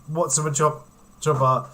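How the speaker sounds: hiccuping mid-sentence; hiccups. Real, not acted. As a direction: talk through the hiccups. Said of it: "Sorry, I've got the hiccups".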